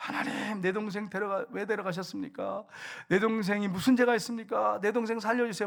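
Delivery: put-on tearful sobbing voice, begging tone. Retelling a boy's prayer while holding his dead brother: imitating a sobbing plea. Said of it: "끌어안고 울면서".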